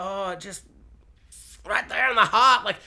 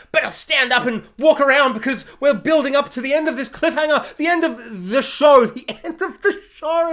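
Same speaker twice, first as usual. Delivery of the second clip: mock Rick voice; 7 semitones higher, 4 dB louder than usual. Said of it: "Rick's like".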